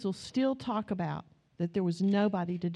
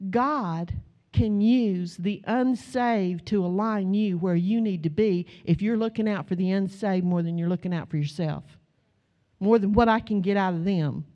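preaching; 3 dB louder than usual. Acted. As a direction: press it on the congregation. Preacher exhorting congregation.

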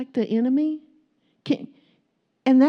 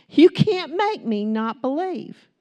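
louder, slower, higher defiant repeat; bold declaration; 4 semitones higher, 5 dB louder, slower than usual. Shown as a demonstration. Preacher declaring faith to the congregation, bold and loud. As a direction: declare it to the whole world, slowly. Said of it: "Here's my declaration to the world".

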